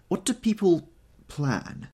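slow, high helpless question. A narrator's reading. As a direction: ask it as if lost. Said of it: "turned to me helplessly".

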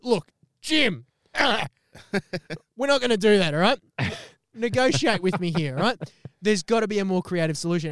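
high, loud, eager bargaining; pumped pleading. Retold or imitated. Mark high and loud negotiating with angry Jim. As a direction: talk him down with cocky energy. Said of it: "And I'm like".

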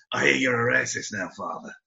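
mock Irish accent, dropping away on the last word; different Irish accent attempt. Shown as a demonstration. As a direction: have another careful go at Irish. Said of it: "gonna try a different one now".

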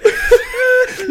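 very high, loud affected laugh; snooty mock laugh. Stuffy theatre crowd at a serious line, braying mock laugh. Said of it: "they'll go".

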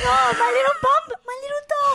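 high, loud mock-mum cooing; doting mum. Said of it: "My mum used to go".

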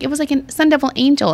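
high, gushing retold wonder. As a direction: share it like a little miracle. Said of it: "And she's like".

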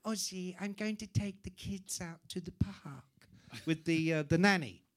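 lightly voiced wife; a hint of a bossy wife heading out; wife telling husband she's taking the kids out, lightly voiced; Sharon voiced. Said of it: "she goes".

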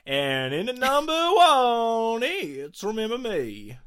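put-on loud, high cowboy accent drifting toward New York; drawn-out cowboy holler, losing the accent; cowboy voice slipping. Host finishing the countdown, cowboy accent slipping into New York. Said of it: "sort of started to go New York".

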